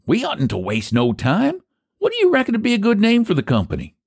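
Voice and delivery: high-pitched rustic character; country pie seller Eph. Acted. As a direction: voice a high, folksy pie man.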